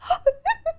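high starstruck gasp, acted out; mock overwhelmed intake of breath; imitated crying gasp. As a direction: gasp as if bursting into tears.

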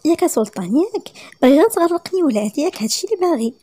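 wife scolding her husband. Acted. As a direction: tell him off, half laughing.

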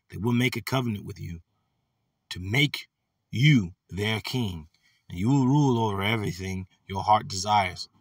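measured reading with deliberate pauses; scripture reading. Acted. Preacher rereading the verse for the brothers, measured scripture reading. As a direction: read it out phrase by phrase, unhurried. Reads second translation of verse.

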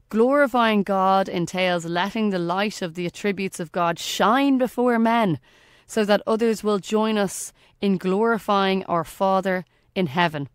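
ordinary delivery

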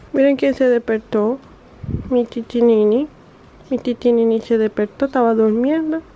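cutesy cooing auntie; playful voicing for a little one. Real, not acted. Cooing over waking baby nephew.

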